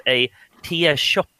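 put-on tea shop drawn out as if spelt the old way; mock-Chaucerian pronunciation of tea shop; tea shop, mock-archaic. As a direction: say tea shoppe slowly, sounding the old spelling. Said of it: "in Chaucerian spelling style".

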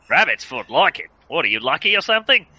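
hearty bluff Aussie voice; booming Australian professor. Acted. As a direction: boom it out like a big bluff Aussie. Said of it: "very deep, booming voice".

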